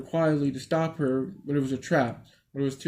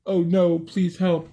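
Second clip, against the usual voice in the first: mock scared plea; 5 semitones higher, slower than usual. Girl's mock plea in story.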